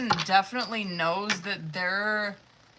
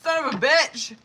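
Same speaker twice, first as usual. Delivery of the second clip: loud pained brain freeze cry; wincing from a brain freeze; 7 semitones higher, 11 dB louder than usual. Real, not acted. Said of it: "I got a brain freeze".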